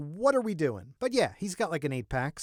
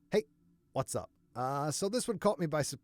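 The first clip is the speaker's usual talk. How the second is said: worn-out voice. Real, not acted. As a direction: push the intro through a shot throat. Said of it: "my voice is going".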